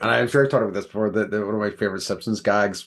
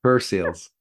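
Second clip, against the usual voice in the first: Irish accent. Real, not acted. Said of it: "that's how I would say it".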